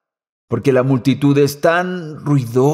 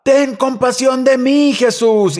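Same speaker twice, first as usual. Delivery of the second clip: retold cry for mercy; 9 semitones higher than usual. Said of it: "él está gritando mientras Jesús pasaba".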